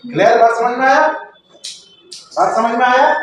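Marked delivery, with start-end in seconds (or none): 1.1-3.1 each word drawn out, asking if they got it; a slowed, patient repeat of the question; slow drawn-out check. Shown as a demonstration. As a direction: stretch the question out slowly. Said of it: "repeated question".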